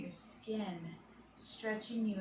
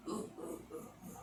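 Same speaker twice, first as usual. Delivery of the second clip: breathy gorilla hoots; 8 dB quieter, faster than usual. Shown as a demonstration. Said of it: "give our best animal voices".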